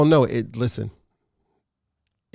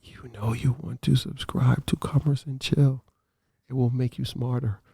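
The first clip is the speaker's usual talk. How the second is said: subliminal messaging voice; 4 dB quieter than usual. Pretend. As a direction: lull them into subscribing. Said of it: "this is subliminal messaging".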